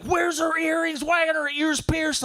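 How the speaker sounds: imitating mom. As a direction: demand it like a shocked traditional mother. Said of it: "she's like".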